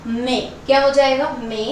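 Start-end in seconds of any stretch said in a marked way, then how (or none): 0.1-0.4 मे said with one long pure "e" and no "ai" glide; correct pronunciation. Shown as a demonstration. Teacher corrects the common मई mistake, मे with a pure e. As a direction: say मे as a single steady "e", never split into म-ई. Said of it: "ये मई नहीं होता है".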